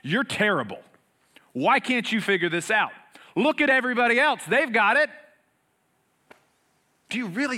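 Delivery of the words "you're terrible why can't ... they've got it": loud, high scolding rant; hammed-up angry scolding, rising to a shout; mock yelling. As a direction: yell it down like a harsh judge on the shore. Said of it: "right to yell into our lives".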